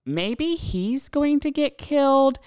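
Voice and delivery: a nosy neighbour reporting live to the dispatcher; gossipy live report. Retold or imitated. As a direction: narrate the fight like a thrilled spy. Breathless running commentary on fight.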